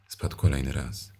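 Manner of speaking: plain reading voice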